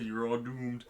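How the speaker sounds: doom-laden warning, slowly; slow ominous raspy drawl. Retold or imitated. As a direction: croak it like a prophet of doom. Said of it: "he says the famous line".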